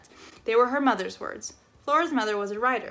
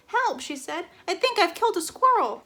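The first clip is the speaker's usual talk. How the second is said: higher, louder cry for help; alarmed call; 9 semitones higher, 4 dB louder than usual. Acted. Missus Tickham calling for help over the vacuum, alarmed. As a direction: call out in a panic.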